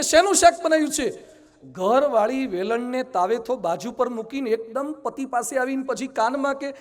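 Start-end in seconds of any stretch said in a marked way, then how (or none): 0.0-1.3 higher, raised call. Retold or imitated. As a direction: call to the wife from up close. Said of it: "બૂમ પાડજો". (નજીકથી બૂમ પાડીને પૂછવું)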